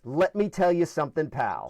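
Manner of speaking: lightly voiced gruff dad, dropping low on pal; a hint of the father's stock opener; dad's catchphrase. Brother quoting dad's favorite opener, lightly imitated. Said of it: "his first thing was".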